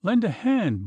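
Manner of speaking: a high desperate bawl for help. A narrator's reading. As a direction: yell for help as the boat slips away. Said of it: "bawled Puttock in extremity".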